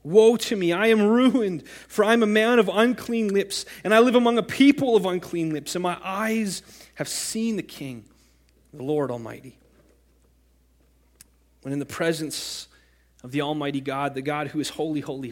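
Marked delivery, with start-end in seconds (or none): 0.0-9.6 loud, high anguished cry of woe; the prophet crying woe, higher and louder; Isaiah crying out. Acted. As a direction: cry it out as a ruined man before God. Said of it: "'Woe to me,' I cried".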